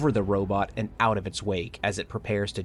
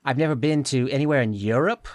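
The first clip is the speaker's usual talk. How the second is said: put-on alien girl voice; 5 semitones higher, 3 dB louder than usual. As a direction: play the alien girl from another planet. Voices Eve in the roleplay.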